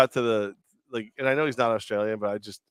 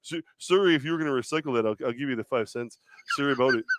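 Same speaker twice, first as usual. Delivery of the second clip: put-on Canadian accent. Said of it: "I did the Canadian accent".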